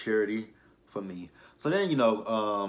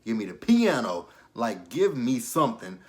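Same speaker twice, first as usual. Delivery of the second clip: building, loud preacher chant; preaching fervor; 3 dB louder than usual. Real, not acted. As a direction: call it out like a pulpit. Preacher-style demand for music.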